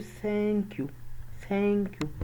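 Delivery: "ثانك يو" high, a held open, "يو" falling; vowel stretched downward. Shown as a demonstration. Teacher showing how most people say it, "ثانك يو" stretched. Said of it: "بيمدها لتحت".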